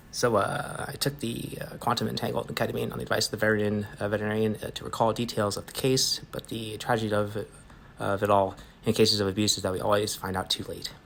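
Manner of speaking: quiet, halting, hesitant delivery; subdued, faltering character read; voice actor's recorded monologue. Acted. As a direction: read it softly with hesitant pauses. Reads Dog Detective recording.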